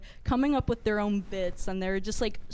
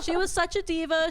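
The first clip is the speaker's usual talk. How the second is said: mock diss; 7 semitones higher, 3 dB louder than usual. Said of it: "no, I'm just kidding".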